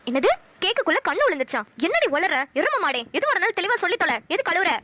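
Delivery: incredulous, exasperated questions with swooping pitch; scolding mother. Acted. Mother hearing daughter's nonsense excuse, exasperated scolding. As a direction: tear into the garbled excuse. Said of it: "கத்தாதம்மா".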